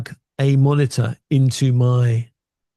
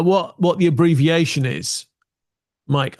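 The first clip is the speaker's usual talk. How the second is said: normal talking voice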